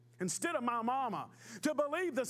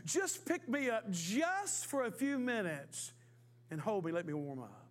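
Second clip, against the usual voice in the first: coaxing snake. Acted. Snake pleads with the boy.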